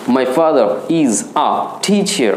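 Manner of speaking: slow, word by word, a puff of air on the t of "teacher"; aspirated pronunciation. Shown as a demonstration. Teacher showing students an aspirated t in "teacher", aspirated pronunciation. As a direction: say "teacher" with a breathy burst on the first t. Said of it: "aspirate করে বলেছো".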